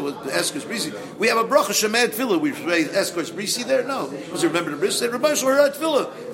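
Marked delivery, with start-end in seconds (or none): 5.1-6.3 emphatic preaching. Real, not acted.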